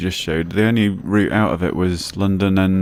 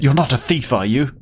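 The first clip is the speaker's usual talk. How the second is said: higher-pitched, sharp challenge; sharp retort; 6 semitones higher, 3 dB louder than usual. A narrator's reading. Young man to a helping stranger, sharp retort. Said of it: "the man retorted sharply".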